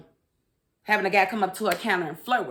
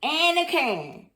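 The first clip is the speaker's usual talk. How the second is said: sing-song name; 7 semitones higher, slower than usual. Shown as a demonstration. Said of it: "I don't know why I'm like that".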